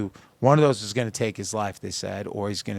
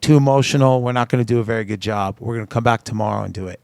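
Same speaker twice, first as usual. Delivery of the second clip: loud, fired-up rush of praise; booming, breathless admiration; emotional excited friend; 7 dB louder than usual. Retold or imitated. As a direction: gush it over the phone, overwhelmed. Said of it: "Gunnar jumps on the phone and goes".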